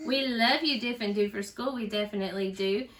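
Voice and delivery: put-on lively storybook reading for kids; reading to children. A narrator's reading. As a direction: read it out to a little one, with bounce. Teacher reads picture book aloud.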